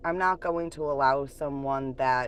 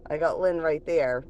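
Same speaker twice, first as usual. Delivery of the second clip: raised, whiny mock of the ex scheming; 4 semitones higher than usual. Vlogger mocks her ex's scheming thoughts, higher and mocking. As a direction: imitate the ex plotting behind his girlfriend's back. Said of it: "And you're like".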